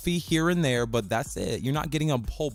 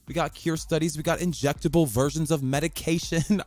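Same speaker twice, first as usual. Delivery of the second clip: slightly raised announcer delivery; 3 semitones higher than usual. Real, not acted. Podcaster listing new studies to listeners, light announcer voice. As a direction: list it like an announcer. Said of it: "my announcer voice".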